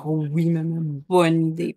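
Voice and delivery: put-on mildly excited child's reply; excited daughter. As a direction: imitate a keen child agreeing. Daughter keen on the idea.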